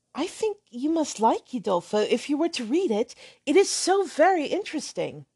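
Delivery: lightly voiced hesitant girl; timid young lady. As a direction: question him gently. Catherine pleads for Udolpho.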